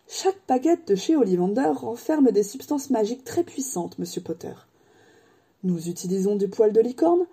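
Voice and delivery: lightly voiced, proud craftsman; proud old wandmaker. Ollivander praises his wands to Harry, lightly proud. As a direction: boast gently of the shop.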